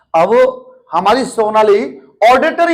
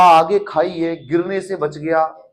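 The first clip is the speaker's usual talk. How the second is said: patient's words; 3 semitones lower than usual. Retold or imitated. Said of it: "उसने बोला".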